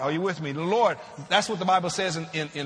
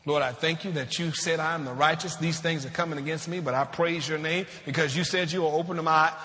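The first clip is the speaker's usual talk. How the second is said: composed thankful prayer, slightly lower; cry of faith; 3 semitones lower than usual. Acted. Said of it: "This cry is a cry of faith".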